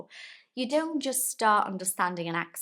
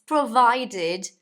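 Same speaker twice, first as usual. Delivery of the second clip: provided said louder with a high lift; emphatic provided; 5 semitones higher, 10 dB louder than usual. Shown as a demonstration. Teacher stressing the condition to learners. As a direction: land hard on provided.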